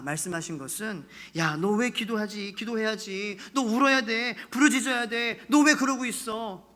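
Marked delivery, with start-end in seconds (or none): 1.3-6.7 insistent urging, building to a firm order; commanding. Acted. God ordering his people to cry out, insistently. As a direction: press them with mild rebuke, then command. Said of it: "이렇게 말씀하시는 명령이기도 해요".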